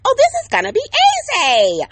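high, loud and breezy; mock carefree cheer, loud and high; naive optimism. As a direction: toss it off like it's nothing. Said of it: "think crazy thoughts like".

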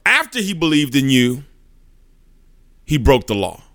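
mildly irritated objection; a touch of acted irritation. Satan rebuts Jesus in court, mildly irritated. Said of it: "he's getting kinda irritated".

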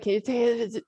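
imitating a groggy patient's slur; mock-slurred mumble, a little softened; slurred words. Groggy husband asks wife for a photo, slurred imitation. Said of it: "he's slurring his words".

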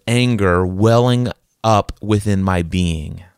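slow, measured noticing of a feeling; detached self-observation. Acted. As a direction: observe your anger slowly from a step back. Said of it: "take a step back".

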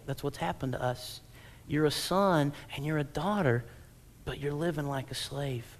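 ordinary talk, nothing marked

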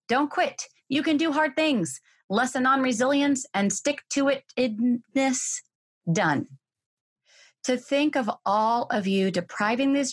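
lively, punchy read-aloud with a rising comic rhythm; performed reading of a post. Acted. Reading a friend's post to listeners, animated read-aloud. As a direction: read it like an impassioned pep talk.

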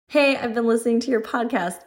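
reading a listener's excited message aloud. Shown as a demonstration. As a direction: read the fan message with a lifted, eager voice. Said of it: "I have to emphasize that she is excited".

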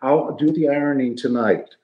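hammed-up henpecked husband placating his wife; fake phone call to wife. Coach fakes a phone call with his wife for visiting players, in a mock apologetic voice. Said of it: "pretending like my wife's on the phone".

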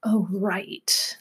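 breathy whisper, voice dropped away; whispered realization. Pretend. Therapist voicing a client's sudden realization in a whisper. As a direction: whisper it as a private aha to yourself.

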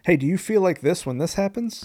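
upbeat TV pitchman voice; infomercial voice. Pretend. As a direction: sell it like a late-night ad. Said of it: "you sound like an infomercial".

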